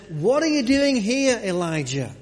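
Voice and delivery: a loud high divine question; voice of God. Acted. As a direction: call out to Elijah from above. God's voice questioning Elijah.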